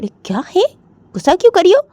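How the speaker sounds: lightly voiced mother. Jiya's mother on the phone, mildly exasperated. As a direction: explain with mild annoyance. Mother asks why angry.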